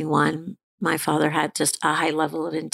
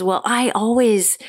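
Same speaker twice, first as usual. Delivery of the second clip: mother's reply; 5 semitones higher, 3 dB louder than usual. Retold or imitated. Mother's self-centered reply.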